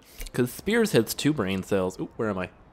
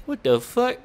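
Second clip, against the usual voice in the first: incredulous; 12 semitones higher, slower than usual. Real, not acted. Indignant reaction.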